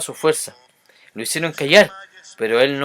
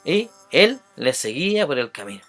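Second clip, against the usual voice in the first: loud, animated Bible reading; emphatic scripture reading; 5 semitones higher, 6 dB louder than usual. A narrator's reading. Preacher reads the Bartimeo story to listeners, emphatic and loud. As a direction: read the verses out with ringing emphasis.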